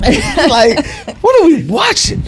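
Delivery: mock whiny complaint. Mimics wife's movie picks.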